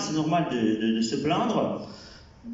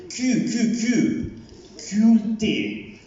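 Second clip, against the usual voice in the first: high squeaky spelling; 9 semitones higher, much slower than usual. Acted. Spelling a word in silly voice.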